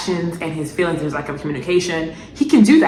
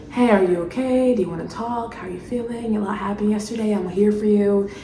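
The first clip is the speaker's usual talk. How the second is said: gentle caring; 2 semitones higher, 4 dB quieter than usual. Retold or imitated. Vlogger voicing what Mike should say, soft and caring. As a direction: say it softly, like a caring boyfriend. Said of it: "you would think he would say".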